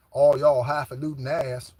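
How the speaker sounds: country twang, leaning into it; country accent. Shown as a demonstration. Speaker showing off how they love talking country, country accent. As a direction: put some country twang on it. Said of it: "I love to talk country".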